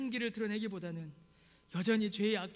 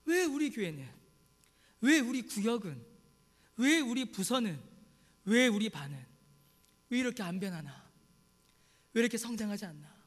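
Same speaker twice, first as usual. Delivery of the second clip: 답답한 불평; 3 dB louder than usual. Acted. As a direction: voice a church leader's exasperated "why". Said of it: "그런 답답함이 우리에게 올 때가". (답답해하는 말투)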